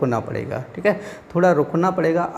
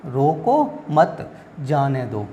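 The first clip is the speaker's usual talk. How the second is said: slow रोको, pause, मत, जाने दो; measured command with a stop after रोको; break after रोको; much slower than usual. Shown as a demonstration. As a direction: set रोको apart and draw out the rest. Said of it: "रोको के बाद ब्राह्म चिन्ह".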